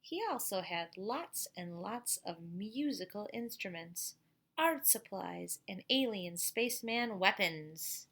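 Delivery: bright, slow storybook narration; lively storybook voice for kids; reading to children. A narrator's reading. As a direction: read it out to the class like a picture book. Reads picture book to class.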